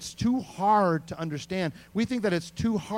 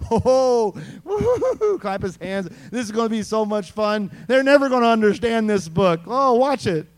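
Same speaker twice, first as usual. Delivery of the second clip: gleeful God; 2 semitones higher, 4 dB louder than usual. Pretend. Preacher pretends God laughs in heaven, lightly gleeful. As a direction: cackle like someone enjoying a joke. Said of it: "and be like".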